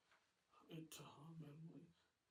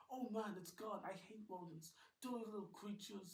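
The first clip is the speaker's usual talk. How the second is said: put-on higher, louder squeamish girl; Rose disgusted; 6 semitones higher, 7 dB louder than usual. Girl recoiling from the mouse, higher and louder. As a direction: spit out your disgust.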